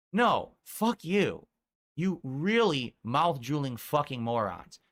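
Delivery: slow, emphatic cursing; real anger. Real, not acted. Streamer telling off those who mocked him, slow and angry. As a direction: curse them out, leaning on every word.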